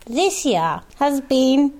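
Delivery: lightly voiced Queen's Christmas speech; mock royal broadcast; Queen impression. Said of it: "Does the, does the Queen sound like that?".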